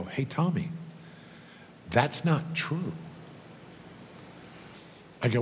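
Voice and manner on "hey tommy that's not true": higher, measured, matter-of-fact correction; slow down to set the boy straight; retold calm rebuttal. Daughter answering a teasing classmate, retold calm rebuttal.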